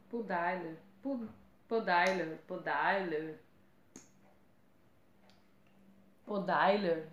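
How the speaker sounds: repeated falling tries at Pudair; unsure pronunciation. Real, not acted. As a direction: sound out Pudair as "po-DYE-ler", testing it. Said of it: "Não sei como que pronuncia".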